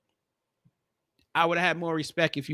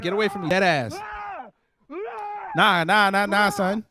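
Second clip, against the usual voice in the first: New Yorker yell; 6 semitones higher than usual. Retold or imitated. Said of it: "He said".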